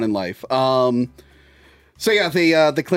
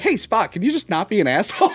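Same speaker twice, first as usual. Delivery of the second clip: mom voice; 5 semitones higher than usual. Retold or imitated. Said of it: "you think his mom would be like".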